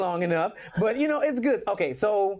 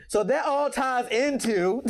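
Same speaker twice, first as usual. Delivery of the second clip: laughing through the words, slower; breaking into laughter while starting the sentence; 5 semitones higher, slower than usual. Real, not acted. Guest explaining her path, laughing through it.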